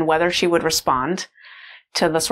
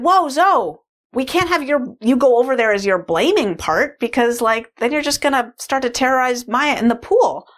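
firm stopping call; 7 semitones higher than usual. Retold or imitated. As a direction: halt her with a raised, higher mom voice. Mother stopping child at the door.

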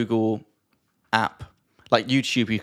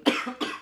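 coughing on prosecco; a real sputtering cough; choking on a drink; 5 dB quieter than usual. Real, not acted. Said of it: "Sorry. Prosecco went down the wrong hole".

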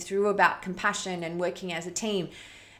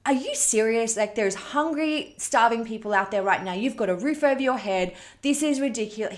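mild scolding dad; 3 semitones higher, 3 dB louder than usual. Retold or imitated. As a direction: imitate a dad snapping at his daughter, understated. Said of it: "He just hammered her".

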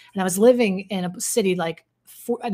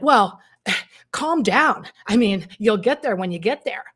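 condescending tourist; 2 semitones higher, 5 dB louder than usual. Retold or imitated. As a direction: talk down to her like a smug tourist. Imitating condescending tourist guy.

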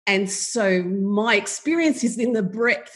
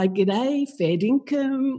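hammed-up Aussie; 2 semitones higher, much slower than usual. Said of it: "Say something Australian".

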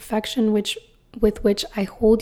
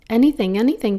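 eager, a little louder; eager cry; 4 dB louder, faster than usual. Acted. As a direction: blurt it out eagerly. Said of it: "the little soul cried".

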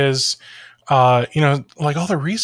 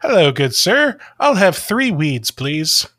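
lightly hammed-up, overly proper customer; a hint of a formal gentleman ordering; mock polite customer; 3 semitones higher than usual. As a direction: play a naive, over-courteous buyer, lilting. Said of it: "I'll be like".

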